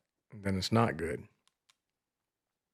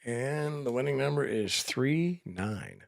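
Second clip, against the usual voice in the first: raffle caller; 3 semitones higher, 4 dB quieter, much slower than usual. Acted. Announcing lottery number on stream.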